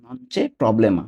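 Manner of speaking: non c'è problema stretched out word by word; slow demo. Shown as a demonstration. Teacher modelling non c'è problema slowly for learners. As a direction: give each syllable of non c'è problema its own time. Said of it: "teacher modelling Italian phrase".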